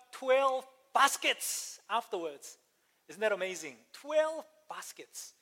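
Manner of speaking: high and very slow, savouring each word; amazed. Real, not acted. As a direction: let the wonder stretch out. Marvelling at the leftovers.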